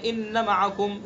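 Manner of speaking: no lengthening on ان before معکم; unstretched alif mistake. Shown as a demonstration. Teacher repeating the common mistake, short a in ان معکم. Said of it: "الف کو کھینچتے نہیں".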